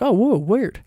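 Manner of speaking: high, put-on startled reaction; mock surprise. Reacting to negative readings of the ending, with high mock surprise. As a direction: act thrown by other people's take. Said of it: "And I was like".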